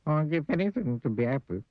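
high, woeful character voice; sad squeaky voice. Acted. Mister Miserable introduces himself, sad and squeaky. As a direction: whine it high and sorry for yourself. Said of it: "Sad, squeaky sort of voice".

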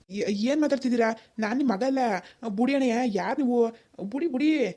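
high, bewildered objection; startled denial, pitch swooping up; alarmed protest. Acted. Denies being the stranger's son.

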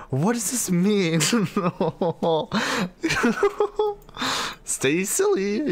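high, loud squeal through laughter. Real, not acted. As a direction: squeal it out, cracking up. Reading messages, squealing.

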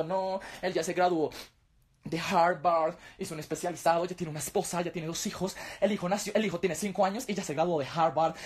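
lightly voiced smug aunt; aunts bragging. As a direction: lay it on thick about the son. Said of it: "mis tías diciendo".

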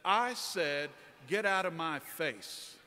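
defiant. Retold or imitated. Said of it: "stiffened up at my full height".

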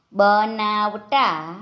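બનાવતા very slowly, syllable by syllable; slow word demonstration. Shown as a demonstration. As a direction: stretch out બનાવતા for learners. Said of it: "જોડણી પર ધ્યાન આપજો".

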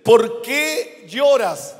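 slow, drawn-out comforting question; gentle question. Acted. Angels ask the weeping woman. (pregunta consoladora y lenta)

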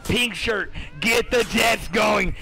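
drawn-out slow call, Pink Shirt first; slow hype call. Real, not acted. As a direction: stretch it out like a hype man.

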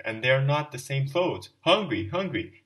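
slow, loud, high lament; despairing shout. Acted. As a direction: drag the words out in despair. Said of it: "kept shouting in despair".

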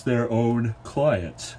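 talking through a yawn. Real, not acted. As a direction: let a yawn stretch the words. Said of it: "Sorry for the yawn".

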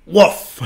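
a short, sudden woof; little bird tries out a dog's bark; mock shriek. A narrator's reading. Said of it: "he hastily opened his beak one day and shrieked".

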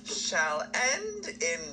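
dramatic villain. Pretend. Villain proclaiming doom.

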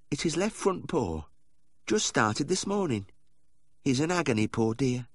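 high, fretful doting voice; fussing lady owner. Acted. Wife tells the vet about the dog's paw, high and fretful. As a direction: fuss over the poor darling.

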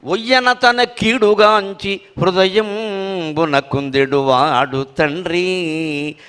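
very slow, sung-out verse; verse recitation. Acted. Reciting the father verse to the audience, very slow chant. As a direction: chant the line at a crawl.

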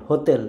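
হোতেল with dental t; Polish soft T. Shown as a demonstration. Teacher contrasts Polish with English, হোতেল with soft t. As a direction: say হোতেল, tongue on the teeth for t. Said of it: "টির জায়গায় বলে".

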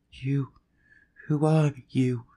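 gasping. Acted. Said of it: "Her words came in gasps".

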